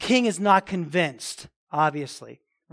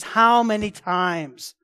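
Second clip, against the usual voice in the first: angry king; 4 dB louder than usual. Retold or imitated. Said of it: "and he's angry".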